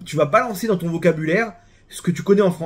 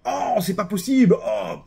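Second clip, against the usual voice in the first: hammed-up groaning complaint, pitched higher; mock griping; 4 semitones higher, slower than usual. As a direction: moan it like a chronic complainer. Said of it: "pourquoi il râle le mec maintenant".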